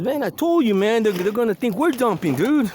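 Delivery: high, mock exasperated friend; I warned you, lightly voiced. Ray complaining to his friend, mock exasperated. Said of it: "And he says".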